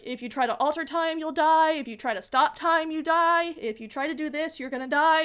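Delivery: mock-stern list of forbidden things; emphatic warning. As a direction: lay down the rules, punching every consequence. Reciting the guardian's list of taboos.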